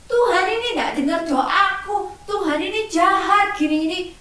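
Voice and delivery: hammed-up child nagging; grumbling child. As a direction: nag at God like a grumpy kid. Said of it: "Jadi nggak terus ngomel-ngomel sama Tuhan".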